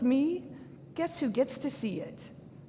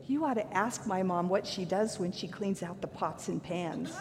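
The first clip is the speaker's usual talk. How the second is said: laughing through a quote; 3 semitones lower than usual. Retold or imitated. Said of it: "she goes".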